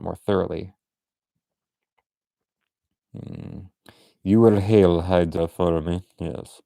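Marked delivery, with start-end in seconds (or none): 4.2-6.6 lightly put-on Russian villainess; a hint of Russian accent, commanding; mock Russian femme fatale; hammy Russian accent. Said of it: "Maybe she is Russian".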